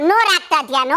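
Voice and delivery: low, unimpressed comeback; defiant dismissal. Acted. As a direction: wave the favour away, pitched low. Defiant retort repeated in quarrel.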